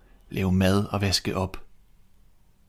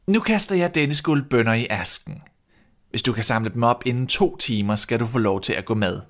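stern stepmother; 3 semitones higher than usual. Acted. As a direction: set a cruel task. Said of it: "sagde stedmoren". (let højere, kold stedmor)

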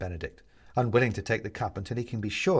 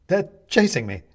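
high, loud cry of alarm; alarmed plea; 8 semitones higher, 8 dB louder than usual. A narrator's reading. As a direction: urgently tell them you are being chased. Benedict pleads at the door.

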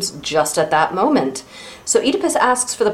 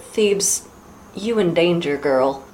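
Whoopi Goldberg in Ghost; 4 dB quieter, slower than usual. Retold or imitated. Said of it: "incredibly Whoopi Goldberg in Ghost voice".

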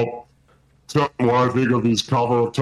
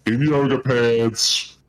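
put-on drunk voice; slower than usual. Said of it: "Toby's white girl wasted".

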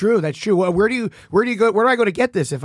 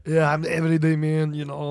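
Arnold Schwarzenegger; 3 semitones lower, 4 dB quieter than usual. Acted. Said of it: "I'm the character from Jingle All the Way".

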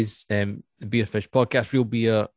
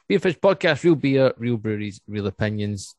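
slogan; 3 dB louder than usual. Acted. Podcast slogan outro.

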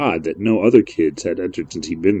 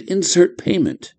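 high, slow machine prompt; 11 semitones higher, 3 dB quieter than usual. Acted. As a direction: read it like a cold machine. The machine's message read out.

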